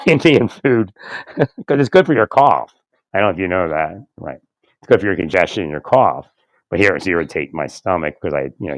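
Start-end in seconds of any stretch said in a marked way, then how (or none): 0.1-2.7 slow, chuckling through the words; laughing through words. Real, not acted. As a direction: laugh while you get it out. Laughing through a food story.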